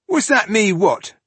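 high, loud baffled reply; puzzled warrior. Acted. Wrongly accused warrior answering the dwarf, baffled.

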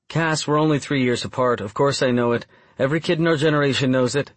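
hint of an incredulous woman in dialogue; lightly voiced Bryn. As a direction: lift the pitch for her teasing protest.

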